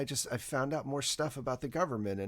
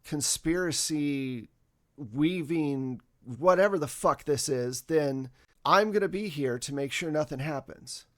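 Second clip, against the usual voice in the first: louder, agitated husband pleading; a husband worked up over conspiracy; upset husband; 6 dB louder than usual. Acted. Husband confronts his agent wife, agitated and louder.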